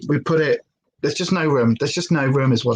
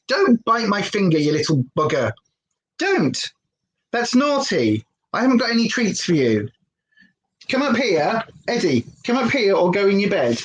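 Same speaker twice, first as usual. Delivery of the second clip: scolding the puppy; 3 semitones higher than usual. Real, not acted. Scolding the puppy during live.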